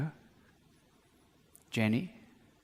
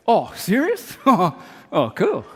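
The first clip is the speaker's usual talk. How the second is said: louder delighted oh serious; gleeful surprise at a free Jag; mock excitement; 4 semitones higher, 5 dB louder, much slower than usual. Man offered a Jaguar reacting with loud glee. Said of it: "Or I can say".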